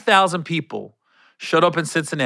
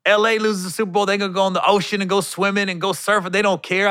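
higher-pitched comic rant, retold; hype man joke; 5 semitones higher than usual. Hype man mocking L A to Cincinnati, playful rant. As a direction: run the bit in a raised stage voice. Retelling his pep rally joke.

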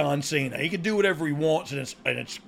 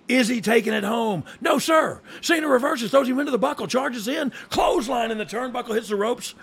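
rising to shouted higher play-by-play; play-by-play commentary; 6 semitones higher, 3 dB louder than usual. Acted. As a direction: build to a frantic wrestling call.

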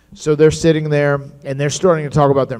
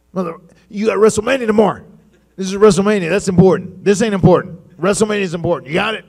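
higher, louder, fast scolding; stern boss; 6 semitones higher, 4 dB louder, faster than usual. Retold or imitated. Boss warning him before WrestleMania, higher and louder, fast. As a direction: lecture him sternly about priorities. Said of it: "He said".

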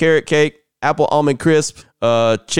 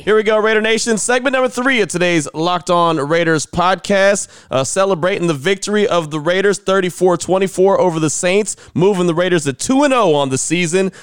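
higher, pumped-up intro to the fans; hyped intro; 5 semitones higher than usual. Real, not acted. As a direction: fire up Raider Nation.

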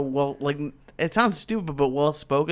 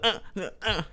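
soft little mimicked grunts; imitated grunts; 3 semitones higher, 7 dB quieter than usual. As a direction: imitate someone's short mumbled grunting. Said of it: "she just does the".

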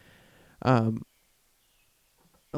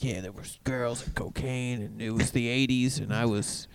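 much softer reminiscing; old regular reminiscing; 3 semitones lower, 10 dB quieter than usual. Retold or imitated. Regular telling staff about LA, soft murmur. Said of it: "He was like".

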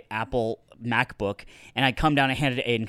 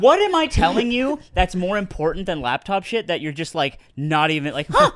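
laughing annoyed rant; 4 semitones higher than usual. Retold or imitated. Retelling her annoyed rant, laughing.

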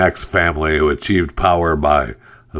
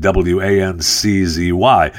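dictating. Shown as a demonstration. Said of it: "spelling out the handle".

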